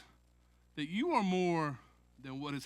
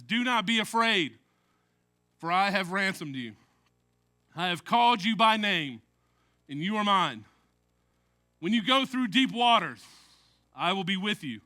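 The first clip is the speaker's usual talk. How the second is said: measured, solemn reading of the promise; scripture reading. Acted. Pastor reading Isaiah forty-three to the congregation, solemn and measured. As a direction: read it as God speaking comfort. Reads Isaiah over music.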